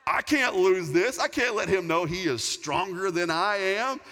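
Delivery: loud, slow, desperate inner voice; gasping that you can't lose to your son; panicked thought. Retold or imitated.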